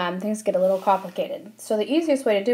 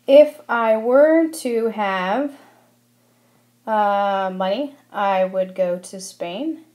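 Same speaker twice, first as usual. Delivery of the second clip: slow example sentence; slower than usual. Shown as a demonstration. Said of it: "same thing stated twice".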